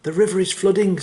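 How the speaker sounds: high-pitched squeaky giraffe voice; squeaky storybook animal voice. A narrator's reading. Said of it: "in a surprisingly squeaky voice".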